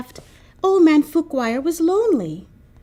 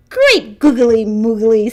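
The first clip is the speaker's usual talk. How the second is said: put-on delighted old man; 7 dB louder than usual. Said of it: "said Old Man Fukwire".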